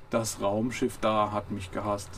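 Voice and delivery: slow, mildly dejected; a touch of a downcast robot. Acted. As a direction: Marvin mildly downcast about the police ship. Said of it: "sagte er niedergeschlagen".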